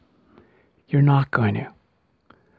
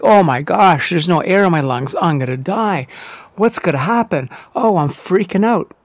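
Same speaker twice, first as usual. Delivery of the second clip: mock panic; 4 semitones higher than usual. A student panicking at the empty breath, in a higher mock-frightened voice. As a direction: act out a student's sudden fear of running out of air. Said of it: "you feel like".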